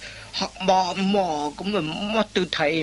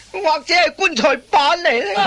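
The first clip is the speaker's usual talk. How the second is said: mocking jab; 9 semitones higher, 4 dB louder than usual.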